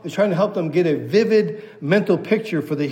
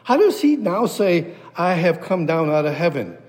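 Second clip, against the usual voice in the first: scripture reading. Acted.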